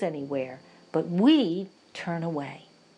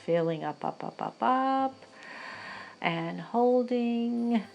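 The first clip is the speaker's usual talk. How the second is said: slow, stretched-out meditation cues; unhurried breathing guide; guided breathing meditation; 2 semitones higher than usual. Real, not acted. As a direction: draw the words out along with the breath.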